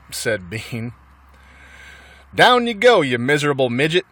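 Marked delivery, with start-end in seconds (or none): 2.3-4.1 bossy order. Acted. Bean orders Bunce down hole.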